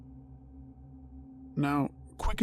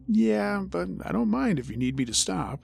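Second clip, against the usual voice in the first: nervous; 6 semitones higher than usual. Retold or imitated. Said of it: "I nervously laughed and said".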